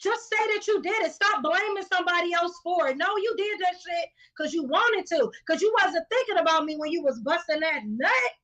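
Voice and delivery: angry ranting at cheaters; heated outburst. Real, not acted.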